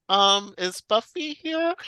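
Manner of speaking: imitating a sweet, nervous boy, slow and slightly high; hesitant, endearing little question; lightly acted nervous asking. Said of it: "He's so nervous".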